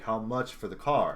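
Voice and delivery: mildly stern retold demand. Retelling a man pressing John to sell his car, mildly stern. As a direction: press the question firmly, without raising the voice. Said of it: "more stern".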